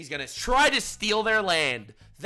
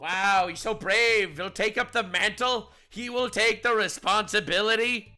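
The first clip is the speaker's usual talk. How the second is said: sarcastic; 4 semitones higher than usual. Real, not acted. Sarcastic praise of PM.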